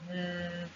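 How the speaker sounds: "mm" as a soft buzzing th, tongue on teeth; th sound. Shown as a demonstration. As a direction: hum a voiced th between the teeth. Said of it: "this sound is mm".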